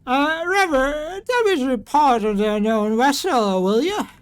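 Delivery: high, loud call for a report; commanding captain. Acted. Commander calls for a damage report.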